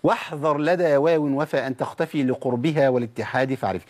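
slow measured verse recitation; chanted line of verse; recited verse. Shown as a demonstration. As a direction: recite it like a teaching poem. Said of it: "والشيخ بيحذرك".

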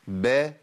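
با said short and clear; ب with fatha. Shown as a demonstration. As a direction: open با with a short a. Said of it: "المتحركة بفتح".

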